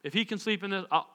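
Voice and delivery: quiet, low, unbothered; nonchalant disciples. Acted. Disciples spot Jesus sleeping on the boat, casually untroubled. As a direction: shrug it off softly, easygoing.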